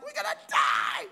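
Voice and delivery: mock panicked shout in the storm; panicked cry. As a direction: yell it like the boat is sinking. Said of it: "They're like".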